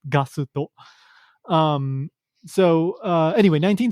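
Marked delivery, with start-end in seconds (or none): 0.1-0.7 "Gasuto" as gah-su-toh, with Japanese vowels; a light "su" in the middle of "Gasuto"; Japanese pronunciation. Shown as a demonstration. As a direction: say "Gasuto" softly in Japanese syllables. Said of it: "In Japanese, it's, it's, uh, pronounced".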